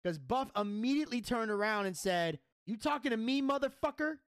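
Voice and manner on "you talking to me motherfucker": mock confrontation, pitched higher; retold angry challenge. Wrestler turning on the man behind him, imitated anger. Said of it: "'Cause he's pissed".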